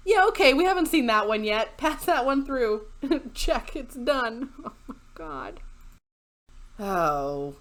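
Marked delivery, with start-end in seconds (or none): 0.1-4.5 higher, louder breezy sign-off, laughing; hammed-up careless designer; mock designer approving. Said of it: "they were like".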